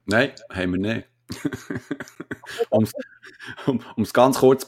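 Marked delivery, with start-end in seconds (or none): 1.3-2.6 kurzes Kichern. Real, not acted. Lacht nach kein Leben.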